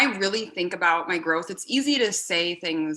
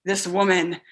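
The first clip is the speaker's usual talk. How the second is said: eye rolling; 5 dB louder, slower than usual. Retold or imitated. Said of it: "in an eye rolling manner".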